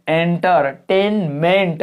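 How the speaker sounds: एंटरटेनमेंट very slow, each syllable drawn out; stretched syllables. Shown as a demonstration. Teacher showing students stressed vowels, syllables stretched. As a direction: pull एंटरटेनमेंट long, piece by piece. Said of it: "खींच के बोलना".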